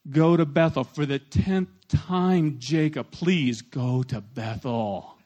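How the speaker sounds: slow, weary divine sigh of a request; a God tired of repeating himself, drawn out slowly; exasperated God. Pretend. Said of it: "it could have been something like".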